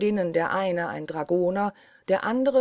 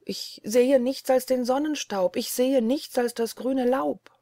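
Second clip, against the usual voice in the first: Ännchen; 6 semitones higher, 3 dB louder than usual. Acted. Ännchen repeats answer.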